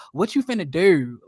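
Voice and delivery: Baltimore vowel put into "do"; mock Baltimore accent. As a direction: mimic a Baltimore accent, "do" bent toward "er". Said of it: "why you putting a er in it?".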